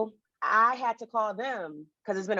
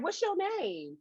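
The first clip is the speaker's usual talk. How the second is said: sharp question; 10 semitones higher, 7 dB quieter than usual. Retold or imitated. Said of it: "I was like".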